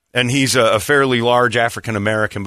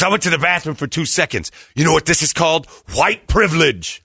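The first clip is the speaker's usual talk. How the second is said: higher-pitched mock outrage; indignant accusation; 5 semitones higher than usual. Lady back from the bathroom accuses them, indignant. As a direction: accuse them, slowing on the last words. Accuser's outburst in retold quarrel.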